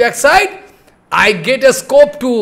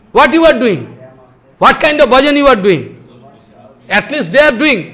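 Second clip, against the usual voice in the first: retold cross-questioning in a raised voice; forceful, slightly raised scolding; angry guru; 4 semitones higher, faster than usual. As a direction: challenge the disciple pointedly. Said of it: "Guru Maharaj become very angry".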